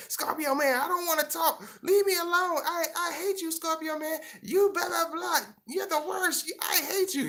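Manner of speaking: very high falsetto whine; mock moody girlfriend. Mocking a cranky girlfriend telling her Scorpio man off, falsetto whine. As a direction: squeal it like a sulky girlfriend. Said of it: "You be like".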